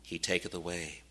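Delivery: solemn scripture quotation, sinking at the end. Acted. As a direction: quote it as a grave warning. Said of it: "he says this very solemnly".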